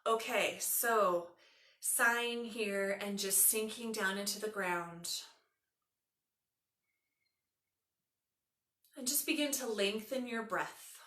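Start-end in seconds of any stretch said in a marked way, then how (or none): 1.8-11.0 unhurried yoga nidra guiding voice, long pauses; measured relaxation instructions with room to breathe; guided meditation. Acted.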